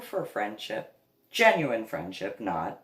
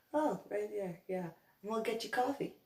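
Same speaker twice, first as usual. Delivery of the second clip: acted soothing; 8 semitones higher, 8 dB quieter than usual. Retold humouring of the man.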